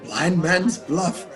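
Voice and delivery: slow, chuckling disbelief; laughing surprise. Acted. Scrooge hears the party game offer, slow amused laugh. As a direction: savour the name with a laugh.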